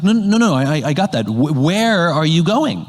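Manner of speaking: imitating a friend's mounting impatience; mock exasperation. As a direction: play the neighbor who isn't getting it, losing patience.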